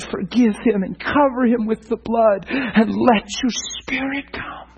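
gentle blessing prayer. Shown as a demonstration. Preacher demonstrating the right way to intercede, tender and pleading. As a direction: pray it as a loving blessing over someone. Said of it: "pray that way".

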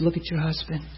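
soft, gentle counsel retold; quiet, steady reassurance; real soft. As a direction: speak softly to calm an upset wife. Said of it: "And I stayed real soft".

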